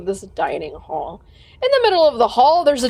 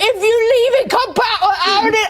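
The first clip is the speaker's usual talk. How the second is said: giant's demanding bellow; 7 semitones higher than usual. Acted. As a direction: roar it out like a greedy giant. Giant threatens the party.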